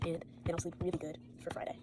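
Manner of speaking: soft unvoiced whisper late at night; tired night whisper. Real, not acted. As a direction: whisper it so no one wakes.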